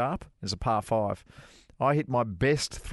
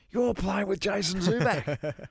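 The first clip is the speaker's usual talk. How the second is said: excited retelling; 9 semitones higher, slower than usual. Retold or imitated. Pros excitedly telling him the news.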